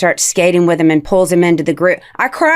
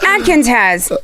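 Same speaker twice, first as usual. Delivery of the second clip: lightly imitated ad pitch; higher TV spokesman read, as a kid copies it; Rob Lowe; 4 semitones higher, slower than usual. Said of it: "his Rob Lowe impression".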